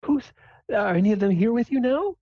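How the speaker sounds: put-on very high falsetto, fussing over her child; doting mom. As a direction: gush like a proud mother. Mom quizzes her daughter.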